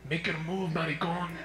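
imitated whisper, still lightly voiced; soft, close-up mock menace; hushed threat. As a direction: murmur it like a tough kid's secret threat. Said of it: "he whispers to me".

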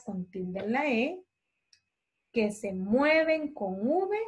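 slow, drawn-out classroom dictation. Real, not acted. Teacher dictating to pupils with spelling notes, slow and measured. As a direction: dictate slowly, stretching words syllable by syllable.

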